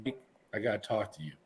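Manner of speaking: confessing to the coach that he has to quit, hushed and defeated. Retold or imitated. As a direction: mumble it with the fight gone out of you. Defeated, giving up football.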